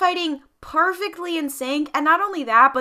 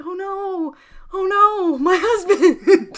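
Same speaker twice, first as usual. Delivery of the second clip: higher, hammed-up wail breaking into laughter; mock distress; 5 semitones higher, 4 dB louder, much slower than usual. Boba sees Din shot down, mock distress. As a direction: wail it melodramatically, laughing at the end. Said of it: "and Boba's like".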